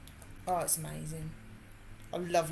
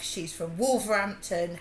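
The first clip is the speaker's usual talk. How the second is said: mock offended Gav; 7 dB louder than usual. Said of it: "and he said".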